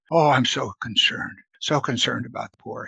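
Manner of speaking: a hint of a pious, fake-caring hypocrite; lightly mock false piety; sanctimonious mock concern. Judas voiced as hypocrite: lightly sanctimonious. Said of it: "how sanctimonious these hypocrites can sound".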